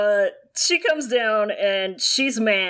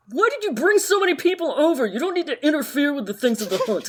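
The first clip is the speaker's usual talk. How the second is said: snotty whiny son; 4 semitones higher, faster than usual. Acted. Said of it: "Jin Zixun is like".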